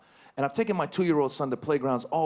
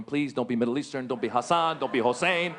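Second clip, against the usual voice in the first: hushed pleading; 2 semitones lower than usual. Retold or imitated. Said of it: "watching T V going".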